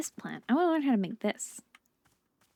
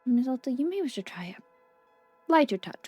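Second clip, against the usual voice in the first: lightly voiced shopkeeper; 3 dB louder than usual. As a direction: calmly advise a lighter touch. Voicing Bora, whispery.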